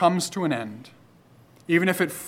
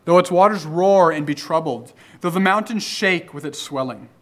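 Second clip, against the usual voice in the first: raised, earnest reading of the psalm; scripture reading; 2 semitones higher than usual. Acted. Preacher reads the psalm aloud to his congregation, earnest and raised.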